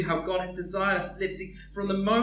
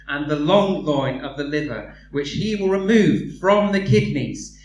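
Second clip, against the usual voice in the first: a hint of droning scripture reading; 3 semitones lower, 7 dB louder than usual. Reads dry Leviticus passage aloud.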